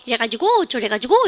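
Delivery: imitating lilting Seoul intonation; fussy Seoul intonation. Teacher mimicking Seoul kids, fussy Seoul intonation. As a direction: put on a fussy Seoul lilt. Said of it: "되게 호들갑스럽게".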